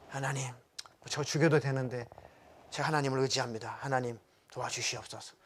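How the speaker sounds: low, subdued plea to God; surrendering prayer. Acted. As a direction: pray it softly, as if worn out. Acts a weary surrendering prayer.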